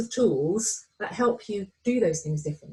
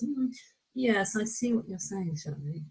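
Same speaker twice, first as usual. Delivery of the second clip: softer, coolly intellectual agreement; detached polite nod; 6 dB quieter than usual. Retold or imitated. Coach mimicking a listener agreeing only in the head, softly. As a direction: nod along without feeling it. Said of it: "intellectual conscious".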